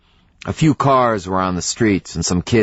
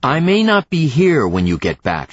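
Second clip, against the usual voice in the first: threatening; 6 semitones higher than usual. A narrator's reading. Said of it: "she threatened".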